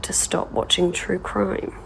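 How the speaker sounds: soft unvoiced whisper. Shown as a demonstration. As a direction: breathe the punchline in a whisper.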